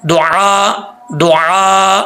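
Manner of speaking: दुआ ending with an audible hamza; hamza on stop. Shown as a demonstration. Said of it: "teacher demonstrates hamza stop".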